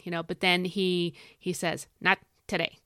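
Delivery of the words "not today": lightly imitated Michigan accent; a hint of a coach's Michigan accent. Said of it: "I just love the way he says it with that, um, whatever his Michigan accent".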